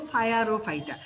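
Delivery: "ফায়ার ও ফাইটা" starting with English "fire"; deliberately distorted pronunciation. Shown as a demonstration. Tutor recapping for students, "ফায়ার ও ফাইটা" said as fire-o-phyta. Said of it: "পাইরোফাইটা উচ্চারণ করব".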